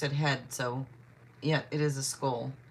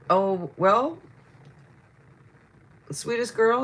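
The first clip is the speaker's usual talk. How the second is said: delighted exclamation; 6 semitones higher, 9 dB louder, slower than usual. Real, not acted. Reacting to a close answer.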